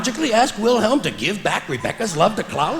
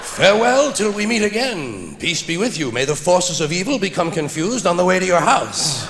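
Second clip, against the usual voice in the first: grand farewell. Shown as a demonstration. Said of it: "Now I say farewell".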